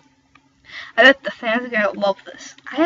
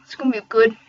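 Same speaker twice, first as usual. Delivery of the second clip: whispered aside; 5 dB louder, faster than usual. Real, not acted. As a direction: whisper to yourself. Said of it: "unvoiced whisper".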